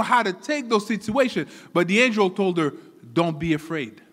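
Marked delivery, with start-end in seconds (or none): 3.1-4.0 low, gentle reassurance; calm reassurance. Retold or imitated. Preacher retelling the angel calming Mary, low and reassuring. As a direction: quietly settle a frightened listener.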